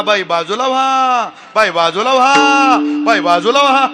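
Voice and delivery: mocking his yell. Woman mimicking the cyclist's shouting in court, slow mock yell. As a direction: throw his own yelling back at him. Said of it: "तेव्हा तर लय ओरडत होता".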